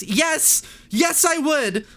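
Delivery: high, loud, begging relief; yes, yes, let me through; desperate pleading. Retold or imitated. Streamer begs the phone robot to connect her, high and loud.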